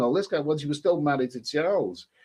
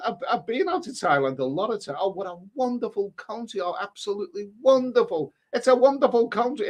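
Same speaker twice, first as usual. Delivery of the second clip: put-on light Irish accent, gushing; lightly voiced Irish nun enthusing about Thailand; 5 semitones higher than usual. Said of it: "in an Irish accent".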